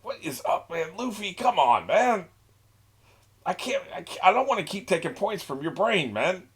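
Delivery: a high, whiny crewmate complaining to Luffy; high whiny sidekick. Pretend. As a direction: whine at your captain in a high voice.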